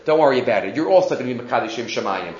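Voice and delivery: low, soft, confiding reassurance; retold whisper. Eliyahu reassuring the cow in its ear, softly imitated whisper. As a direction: lightly imitate a whisper with hushed voice. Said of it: "whispered in the cow's ear".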